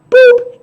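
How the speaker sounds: short high toot dropped into the sentence; quick mouth-made beep; horn boop. Retold or imitated. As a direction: mimic a useless little horn. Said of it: "a horn that sounds like".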